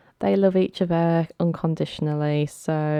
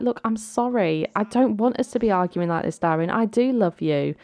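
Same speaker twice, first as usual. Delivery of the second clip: higher-voiced, apologetic bride; acted pleading; 4 semitones higher than usual. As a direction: plead to stop the quarrel, lightly acted.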